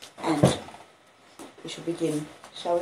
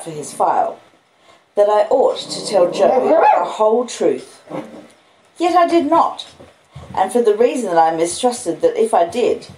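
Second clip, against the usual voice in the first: louder, expressive reading aloud; story reading; 3 semitones higher, 6 dB louder than usual. Acted. Owner reading Dickens aloud to her dogs, expressive. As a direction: read the novel to the dog.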